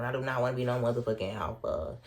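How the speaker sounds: firm, emphatic telling-off; a mock outraged no; retold indignant retort. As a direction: spit it back at him, offended. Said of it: "I'm just saying that's how I was saying it".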